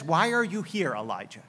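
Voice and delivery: a hushed, thin voice of silence. Acted. God asks Elijah quietly in the thin voice, hushed and fading. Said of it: "in that thin voice".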